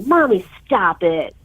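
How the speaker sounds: slow, drawn-out mock kid whine; whining child. Mother imitating her kids talking to mommy, whiny. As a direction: imitate a pouting kid, stretching the words. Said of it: "they'll whine and pout".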